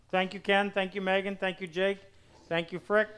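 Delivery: talking while chewing a grape; words around a mouthful of food; mouth full. Real, not acted. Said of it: "Pardon me, I'm eating a grape".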